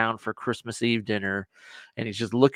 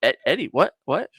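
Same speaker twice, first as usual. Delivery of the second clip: startled cry; 3 dB louder than usual. Retold or imitated. Quoting Clark's startled outburst.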